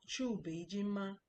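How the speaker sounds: slow Chu Beijing ma, every tone drawn out; Mandarin tones. Shown as a demonstration. Teacher drilling a Mandarin question for the class, slow and clear. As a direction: sound out Chu Beijing ma slowly, tone by tone. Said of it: "If you watch my tones".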